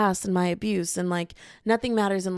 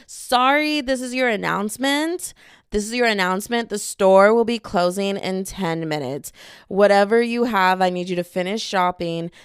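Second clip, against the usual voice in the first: supermarket announcement; 3 dB louder than usual. Pretend. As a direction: announce store closing over the intercom. Mock store PA announcement.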